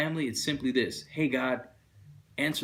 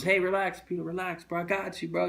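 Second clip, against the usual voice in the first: suave Jesus; 5 semitones higher than usual. Retold or imitated. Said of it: "he was suave, he was cool".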